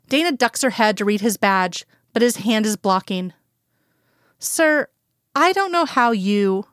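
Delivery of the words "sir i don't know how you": firm and businesslike, high on sir; a touch of firm authority; lightly voiced firm agent cutting him off. A narrator's reading. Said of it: "she begins firmly".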